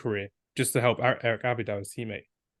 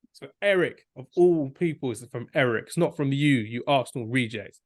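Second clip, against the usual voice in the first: mock indignant rebuke; 2 semitones higher than usual. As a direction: scold the intruder in mock outrage. Acting Puyol's rebuke of Song.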